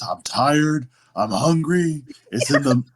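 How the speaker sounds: drawn-out, whiny mock complaint; mock berating. Imitating a husband berating his wife, mock complaint without yelling. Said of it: "when he's berating his wife".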